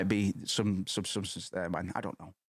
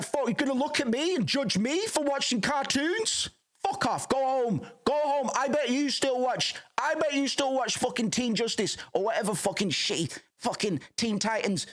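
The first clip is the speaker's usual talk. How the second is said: high, shouting mock rage, voice strained and unlike his own; hammed-up angry rant; 12 semitones higher than usual. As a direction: scream it back at the kid who judged him. Imagined rant at judging customer.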